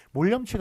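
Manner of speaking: 몰염치 broken after 몰; mol, yeomchi, kept apart in 몰염치; split reading. Shown as a demonstration. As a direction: say 몰, then 염치 as its own word. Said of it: "이런 식으로 끊어서 읽습니다".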